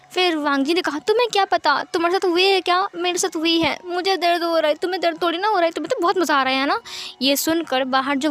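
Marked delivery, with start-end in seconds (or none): 1.0-6.8 indignant retort. Acted. Wang Ji snaps back in anger.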